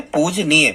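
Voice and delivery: पूजनीय said clearly, poo-ja-neey; teacher repeats पूजनीय so students hear it. Shown as a demonstration. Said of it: "फिर से सुन लें".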